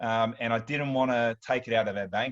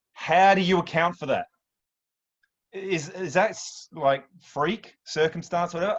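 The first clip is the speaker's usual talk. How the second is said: real disbelief, pitched up and emphatic; incredulous; 5 semitones higher than usual. Real, not acted. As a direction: throw it out in amazement, raised voice. Marvels at the unlikely coincidence.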